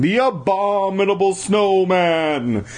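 drawn-out, hammed-up monster name; dramatic naming. A narrator's reading. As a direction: stretch it out like a horror title. Monster name boomed mockingly.

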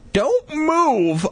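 high, urgent call to his sister. Acted. Boy warns sister over a grave, calling out high. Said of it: "I called".

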